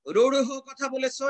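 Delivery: slow, laboured রূঢ় with its h sounded; stiffly exact রূঢ়, drawn out; over-careful pronunciation. Shown as a demonstration. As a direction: overdo the aspirated ending of রূঢ়. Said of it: "এরকম বলবে?".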